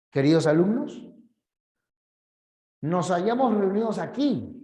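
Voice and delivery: formal address in deliberate phrase groups; solemn speech delivered phrase by phrase; speech with phrasing pauses. Shown as a demonstration. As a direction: orator pausing between phrases. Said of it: "Es otra cosa".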